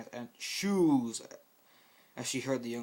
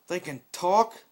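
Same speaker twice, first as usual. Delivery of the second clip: higher, louder disbelief; shocked question; 6 semitones higher, 10 dB louder, slower than usual. Acted. Scout amazed the ponies can talk, shocked. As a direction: gasp out the question.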